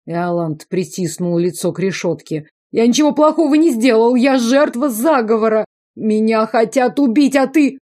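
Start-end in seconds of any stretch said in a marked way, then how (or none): 2.7-7.8 high, loud, fast whining; whining excuses. A narrator's reading. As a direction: rattle off excuses in a whine. (высокое быстрое нытьё)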